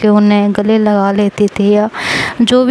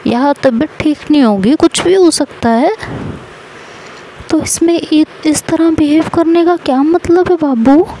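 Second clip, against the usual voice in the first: a mother-in-law who scolds out of love, pitched up; fond scolding mother-in-law; 6 semitones higher than usual. Retold or imitated. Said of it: "कहती है".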